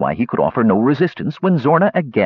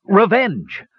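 higher, slow mock scream; restrained scream; 5 semitones higher, slower than usual. A narrator's reading. Warrior stunned by her brazen flight, a restrained scream. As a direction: cry out in outrage, without much volume. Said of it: "all he could do was scream".

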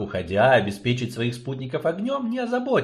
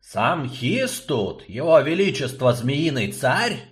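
slow sinister creaky drawl; a menacing, slowly savoured sneer; horror host; slower than usual. Acted. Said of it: "зловеще протянул он скрипучим голосом".

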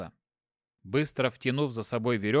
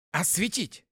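through gritted teeth; 5 semitones higher than usual. Acted. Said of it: "Сквозь стиснутые зубы произнёс я".

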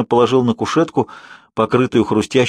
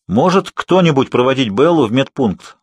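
raised voice to the class; loud; 3 semitones higher than usual. Acted. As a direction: call it out loudly. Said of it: "громко спросил мистер Баннер".

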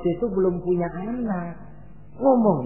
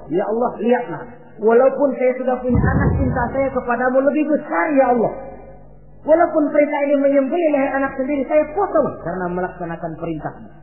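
high, raised declaration to God; fervent vow; 6 semitones higher, faster than usual. Acted. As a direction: proclaim it as an ardent pledge. Ibrahim vows his love to God. (berikrar lantang penuh keyakinan)

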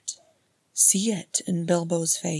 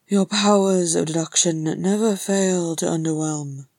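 louder sarcastic grunt; 6 dB louder than usual. Acted. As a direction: grunt the dry put-down. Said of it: "Thorin grunted".

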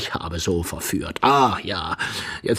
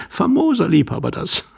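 higher, laughing jeer; mocking laughter; 10 semitones higher, 5 dB louder than usual. Young man jeers at the self-styled lover, laughing mockingly.

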